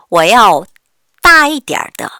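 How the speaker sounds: teacher drilling slowly; slow model reading. Shown as a demonstration. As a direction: stretch every syllable clearly. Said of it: "이렇게 표현하면 돼요".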